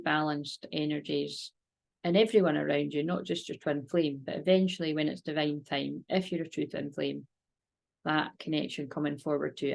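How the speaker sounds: calm, steady meditation voice; guided meditation. Acted. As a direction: lead a gentle visualisation. Guided visualisation and prayer.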